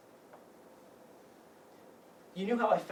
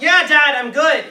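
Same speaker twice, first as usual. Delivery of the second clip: forced reassurance; 7 semitones higher, 12 dB louder, slower than usual. Acted. Hiding distress from dad.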